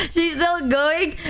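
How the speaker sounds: high, slow question through laughter; laughing in disbelief. Real, not acted. Streamer laughing at the chat, slow and high.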